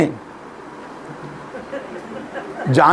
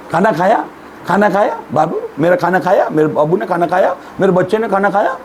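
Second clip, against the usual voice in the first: put-on lightly cooed baby talk, a little softer; cooing baby talk; 4 semitones lower, 3 dB quieter than usual. Preacher mocking couples cooing at each other in baby talk. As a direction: coo it like to a baby, rising at each end. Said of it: "उसको बराबर बोलते हैं".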